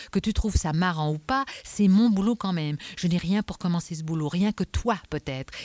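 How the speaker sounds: insistent inspector, mildly heated; irritated Adamsberg. Acted. Inspector presses his only lead to talk, irritated. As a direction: argue urgently, stressing the key words.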